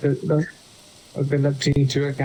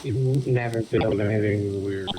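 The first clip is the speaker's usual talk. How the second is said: glitchy robotic voice chat; 4 semitones lower than usual. Real, not acted. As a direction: sound like a garbled robot over the mic. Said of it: "You got a bit of a robot voice going".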